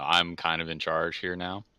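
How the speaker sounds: air of authority. Acted. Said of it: "put on, like, an air of the".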